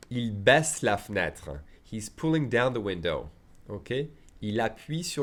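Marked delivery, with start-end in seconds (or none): 0.1-1.6 baisse said slowly with a clear S; slow classroom demo; slow model sentence. Shown as a demonstration. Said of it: "teacher models sentence slowly".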